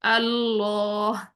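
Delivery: اللہ slow, lam full and heavy, "Alloh". Shown as a demonstration. Teacher demonstrating the heavy lam of اللہ. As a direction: darken the لام in اللہ to an o sound. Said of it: "اس طرح سے".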